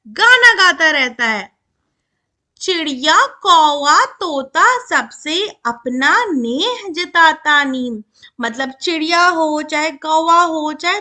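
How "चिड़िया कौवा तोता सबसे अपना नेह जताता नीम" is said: slow, drawn-out verse reading; poem recitation. Shown as a demonstration. Teacher reads the neem poem to children, slow recitation. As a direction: stretch each word out in measured verse. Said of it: "चलो अब कविता पढ़ते हैं".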